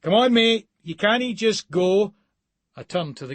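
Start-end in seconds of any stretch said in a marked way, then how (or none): 0.0-2.1 loud, high urging shout; desperate shout. Acted. Man shouting at dying stranger during CPR, desperate loud shout. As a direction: shout him back to life. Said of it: "I shout at the guy".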